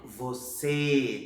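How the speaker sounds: VOCÊ with a long closed ê; closed vowel. Shown as a demonstration. Teacher showing the circumflex, closed vowel. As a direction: stretch VOCÊ without opening the mouth. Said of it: "fecha o som da letra".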